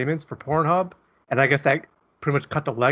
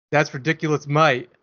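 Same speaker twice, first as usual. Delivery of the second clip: put-on Australian accent. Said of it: "flawless Australian accent".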